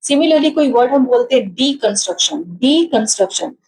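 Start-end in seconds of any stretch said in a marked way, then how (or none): 1.5-2.4 "डीकंस्ट्रक्शन" with extra weight on the opening डी; stress on डी. Shown as a demonstration. Teacher demonstrates syllable stress to students, stress on डी in "डीकंस्ट्रक्शन". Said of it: "डी पे हमारा stress ज्यादा आया". 2.6-3.5 "डीकंस्ट्रक्शन" with extra weight on the opening डी; stress on डी. Shown as a demonstration. Teacher repeats the example word, stress on डी in "डीकंस्ट्रक्शन". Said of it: "डी पे हमारा stress ज्यादा आया".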